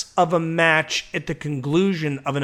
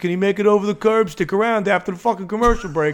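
mock TV announcer; 3 semitones higher, faster than usual. Podcaster spoofs a Pac Blue bike chase, mock announcer. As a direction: play a cheesy cop-show announcer for laughs.

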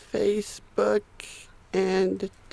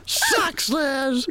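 high mocking laughing chant; teasing sing-song; 5 semitones higher than usual. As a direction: taunt like a bratty kid.

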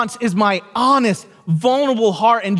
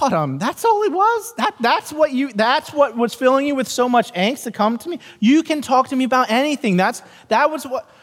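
high, amazed disbelief; a dad stunned at something so small; incredulous dad; 6 semitones higher than usual. Retold or imitated. Father to his daughter, amazed it was only a movie. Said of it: "I'm like".

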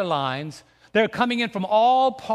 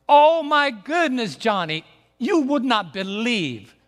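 imitating a frantic caller, higher and louder; fever pitch; 3 semitones higher, 3 dB louder, slower than usual. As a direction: retell the friend's alarmed voice, slowed. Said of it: "his voice was at fever pitch".

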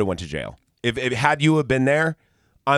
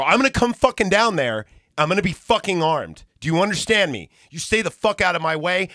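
raised, emphatic warning; angry retold threat; 6 semitones higher than usual. Threatening the man before coming down there, angry. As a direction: warn him off, pitch up and heated.

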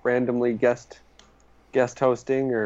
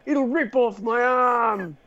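high-pitched cartoon Aussie; Australian accent, drawing out the last words; 8 semitones higher than usual. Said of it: "but in an Australian accent".

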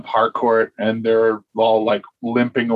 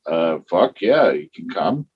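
casual go-ahead; 6 semitones lower than usual. Retold or imitated. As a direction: shrug it off like a chill producer. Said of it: "And it's like".

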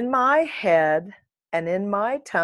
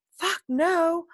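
indignant retort; 11 semitones higher than usual. Retold or imitated. Acts out own indignant retort.

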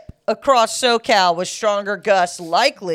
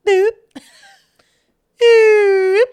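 high, feeble toy-gun boop; weak bullet boop; 10 semitones higher, 7 dB louder than usual. Retold or imitated. Mocking a weak first bullet to her co-host, high silly boop. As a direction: make the bullet sound pathetic. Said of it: "the first bullet from a gun was just like".

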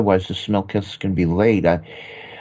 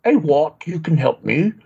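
higher, hammed-up British accent; fake British accent; 3 semitones higher than usual. American faking a British accent for the podcast. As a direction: stumble through a bad British accent. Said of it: "behave like a Brit".

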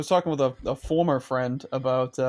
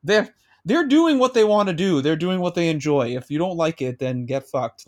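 irritated rant; 3 semitones higher than usual. Real, not acted. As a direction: get worked up and vent. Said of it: "it just gets me so irritable".

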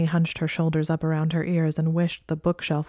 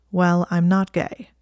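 flat; 4 dB louder than usual. Acted. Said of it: "Theo said flatly".

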